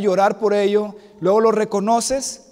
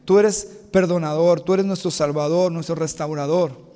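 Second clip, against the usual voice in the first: closing prayer; 2 semitones lower than usual. Acted. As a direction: pray to God for the congregation, slowing and fading. Closing prayer after "Vamos a orar. (oración pastoral sentida que se apaga al final)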